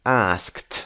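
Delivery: "asked" ending in a T sound. Shown as a demonstration. Teacher drilling past forms, "asked" closed with T. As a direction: say "asked" as askt, one syllable. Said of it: "صدای ت".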